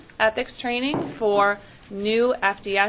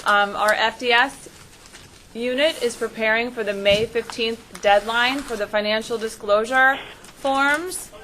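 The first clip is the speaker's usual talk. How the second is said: raised voice repeat; 2 semitones higher than usual. Real, not acted. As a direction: project it for someone who can't hear you. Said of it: "I'm gonna repeat what I said".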